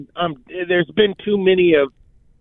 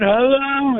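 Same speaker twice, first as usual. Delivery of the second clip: retold scream; 8 semitones higher than usual. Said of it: "I just start screaming".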